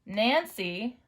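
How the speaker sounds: very slow sentence; slow dictation. Shown as a demonstration. Teacher dictating second sentence. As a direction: stretch each word for writers. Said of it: "Let's tap it together".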